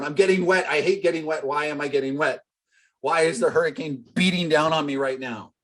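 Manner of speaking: lightly hammed-up complaining; mock whining. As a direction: sulk like a kid caught in rain. Mocking whining in the storm.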